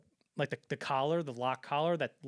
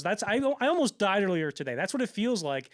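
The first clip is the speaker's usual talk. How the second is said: mild angry scolding; 5 semitones higher, 4 dB louder than usual. Retold or imitated. The speaker voiced scolding executive.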